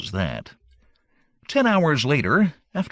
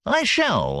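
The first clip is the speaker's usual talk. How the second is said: shouted; 10 semitones higher than usual. Acted. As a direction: leap up and shout it. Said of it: "I shouted".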